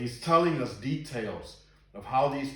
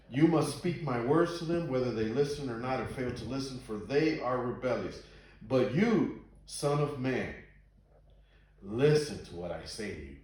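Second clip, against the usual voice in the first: emphatic Bible verse reading; scripture reading. A narrator's reading. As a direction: read it out firmly, landing the key words. Reads scripture aloud to listeners.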